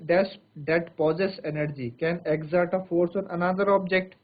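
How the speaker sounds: very slow, each phrase spaced out; slow dictation. Shown as a demonstration. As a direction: dictate slowly for notes. Dictating a definition. (धीरे-धीरे लिखवाना)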